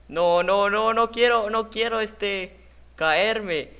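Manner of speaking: high, loud drawn-out wail of alarm; panicked pleading. Real, not acted. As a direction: wail in fear of falling. Teme caerse en el juego. (súplica con pánico)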